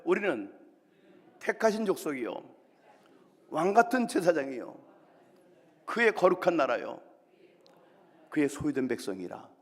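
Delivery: loud, paced liturgical call; call and response. Shown as a demonstration. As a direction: lead the congregation to repeat. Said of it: "따라하실까요?".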